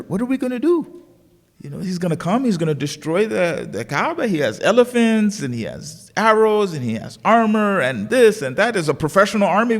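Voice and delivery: worried. Acted. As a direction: voice the fretting crowd, pitch up. Acted worried crowd facing an army.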